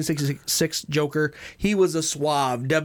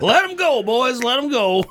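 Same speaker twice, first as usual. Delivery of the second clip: laughing, higher and louder call; 7 semitones higher, 5 dB louder than usual. Pretend. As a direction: laugh through a mock order. Laughing mock cop order.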